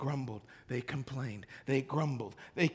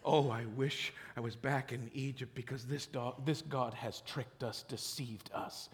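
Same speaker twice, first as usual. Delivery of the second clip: soft mock grumbling; whining complaint; 9 semitones lower, 13 dB quieter than usual. Preacher mocking the Israelites accusing God, soft whine. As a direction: grumble it bitterly. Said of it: "you were very quick to say".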